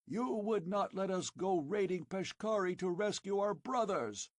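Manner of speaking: shouted accusingly. Acted. Old chief accusing Conan before the tribe, angry shout. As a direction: point the finger with your voice. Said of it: "shouted accusingly".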